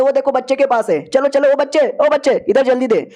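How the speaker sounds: urgent high calling across the crowd. Acted. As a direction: shout over to grab the child. Crowd calls out to the kid.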